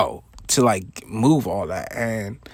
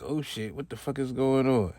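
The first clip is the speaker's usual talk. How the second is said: much softer, a worried aside to himself; hushed alarm; 9 dB quieter than usual. Retold or imitated. Kid watching the boss confront his manager, hushed alarm. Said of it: "I'm like".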